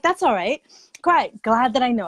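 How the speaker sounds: high, loud, overly cheerful reassurance; talking yourself into being fine with it; brightly forced okay. Retold or imitated. To herself about the six AM meeting, high forced cheer. Retold self-talk about early appointment.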